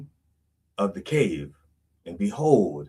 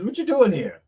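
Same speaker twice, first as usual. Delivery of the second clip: puzzled God; 11 semitones higher, 4 dB louder than usual. Acted. Forgetful God asking Elijah.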